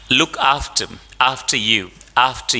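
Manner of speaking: "after" with no r, as "aftə"; British after. Shown as a demonstration. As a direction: drop the r in "after". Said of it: "R is not spoken". ("after" बिना आर के, British ढंग से)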